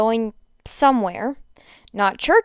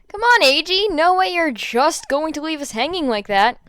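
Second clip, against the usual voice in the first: louder, higher whining insistence; eager pleading; 4 semitones higher, 5 dB louder than usual. Acted. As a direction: beg him not to leave it there. Denki begging to know.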